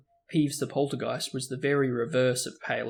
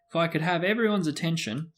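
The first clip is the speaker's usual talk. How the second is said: loudly; 5 semitones higher than usual. Acted. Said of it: "said Nearly Headless Nick loudly".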